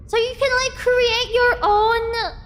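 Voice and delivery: wide-open astonished questioning; amazed questioning. Real, not acted. Amazed questions about new idea.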